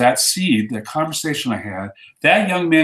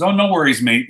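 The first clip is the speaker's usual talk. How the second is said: lightly faked Australian, pitched up; bad Australian accent; 3 semitones higher than usual. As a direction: attempt a casual Australian accent. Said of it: "trying to speak Australian".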